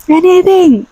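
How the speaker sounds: high-pitched exasperated cry; exasperated outburst. Real, not acted. Reviewer fed up with an idle witch, exasperated squeal. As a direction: blurt it out, voice leaping way up.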